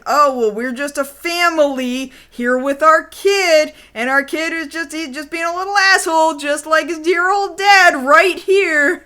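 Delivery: lightly played cover story for bystanders; mock reassuring family act. Kaori calming the crowd by posing as family, mock reassurance. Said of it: "Kaori has to make everybody think".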